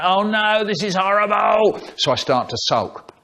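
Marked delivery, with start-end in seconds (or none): 0.0-1.8 acted dismay. Child dreading mum's vanilla cake.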